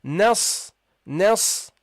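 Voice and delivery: nas with a short a running straight into s; short-vowelled nas, ending on the s; joined for fluency. Shown as a demonstration. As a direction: go from the n directly to a held s in nas. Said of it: "for fluency purposes. So you say here".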